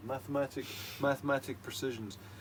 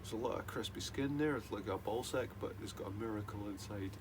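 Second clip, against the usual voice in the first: positive affirmations; 2 semitones lower than usual. Pretend. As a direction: soothe like a self-help guru. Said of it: "positive affirmations".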